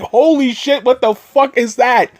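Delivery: high-pitched startled outburst; shocked reaction. Retold or imitated. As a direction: jump in alarm at the monster. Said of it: "And you're like".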